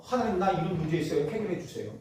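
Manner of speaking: soft, low kneeling prayer; humble pleading. Acted. Feeling inadequate, kneeling before God, humble plea. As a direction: pray meekly, low and subdued. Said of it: "부족해서 하나님 앞에 무릎 꿇고".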